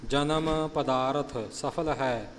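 slow verse with ਪਦਾਰਥ as pa-daa-rath; correct recitation. Shown as a demonstration. Teacher modelling the verse slowly, ਪਦਾਰਥ as pa-daa-rath. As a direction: draw it out, a light vowel before the th of ਪਦਾਰਥ. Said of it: "ਜਨਮ ਪਦਾਰਥ ਨਹੀਂ ਬੋਲਣਾ".

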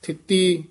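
ਥਿੱਤੀ set apart from Gauri with a rest; ਥਿੱਤੀ ਉੱਤੇ ਯਮਕ; pause after word. Shown as a demonstration. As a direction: say ਥਿੱਤੀ and stop briefly. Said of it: "ਥਿੱਤੀ ਇੱਥੇ ਯਮਕ ਲਾ ਦੇਣੀ ਹੈ".

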